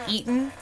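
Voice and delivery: "eaten" for eating, g dropped; dropped ing. Shown as a demonstration. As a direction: drop the ing ending to "eaten". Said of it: "like the dropping of an ing".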